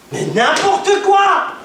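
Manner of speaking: cri aigu et lent, grande montée; indignation criée. Real, not acted. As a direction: lancer ça comme une protestation outrée. Réplique indignée aux anciens. (cri indigné contre les anciens)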